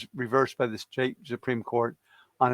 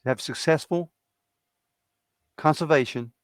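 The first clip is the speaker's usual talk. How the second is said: Jimmy Carter. Retold or imitated. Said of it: "I used to do a Jimmy Carter impression".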